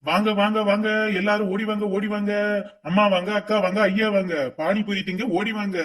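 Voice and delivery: sing-song vendor call; hawker's cry. Acted. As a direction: cry out your wares.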